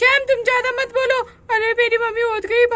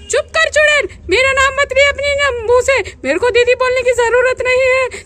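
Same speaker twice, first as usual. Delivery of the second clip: furious shout; 3 semitones higher than usual. Acted. Wife screaming at rival.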